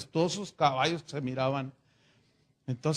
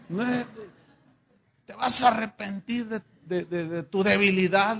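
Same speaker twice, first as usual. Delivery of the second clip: scolding; 3 semitones higher, 4 dB louder than usual. Acted. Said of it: "le decía al, al pobre Pepe".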